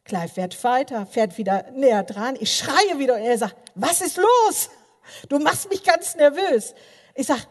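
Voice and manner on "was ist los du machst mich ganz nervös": louder, higher, exasperated driver; husband irritated at the wheel. Retold or imitated. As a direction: snap back at the scared wife. Husband snaps at screaming wife.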